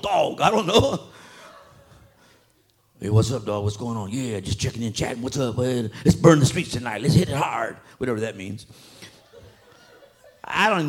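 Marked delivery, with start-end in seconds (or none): 3.0-7.8 lower, laid-back slang chat; a hint of street tough talk; street buddies. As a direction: play two homeboys planning a night out. Acted street friends' phone chat.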